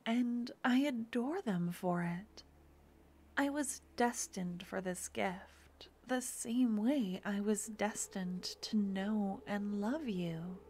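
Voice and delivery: intimate roleplay voice. Acted. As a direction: murmur it close to the mic like a devoted partner. Romantic audio roleplay throughout.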